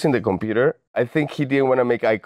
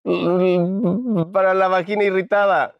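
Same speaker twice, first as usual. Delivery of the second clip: Para la vagina irritada said slowly in Spanish; slow, careful Spanish phrase; 6 semitones higher than usual. Retold or imitated. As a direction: en español, despacio. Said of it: "cómo se dice irritated vagina in Spanish".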